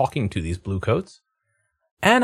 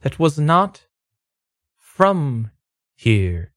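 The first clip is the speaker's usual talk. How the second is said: high, slow, eerie ghost; 5 semitones higher, much slower than usual. Acted. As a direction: moan it like a spooky ghost. GM voices the ghost.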